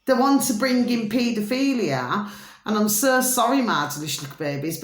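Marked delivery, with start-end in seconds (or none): 3.6-4.8 rushed, low and soft endearment; a fast murmured aside to the audience; quick low aside. Real, not acted. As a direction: toss the pet name off under your breath. Pet-name aside to viewers.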